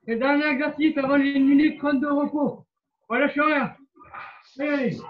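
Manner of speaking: loud pushing coach call; barking gym coach. Real, not acted. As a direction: drive the class on, loud. Coach pushing class, last exercise. (coach qui encourage fort)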